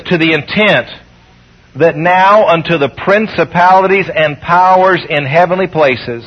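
slow, weighty Bible reading; scripture reading. Acted. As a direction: read the verse slowly like holy writ. Reads scripture aloud.

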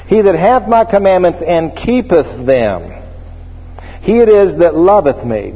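HATH leaned on, words drawn out slowly; slow, stressed scripture reading. Shown as a demonstration. Preacher marking a verse for the congregation, slow and stressed. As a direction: read it slow so they mark every word. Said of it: "I want you to mark this".

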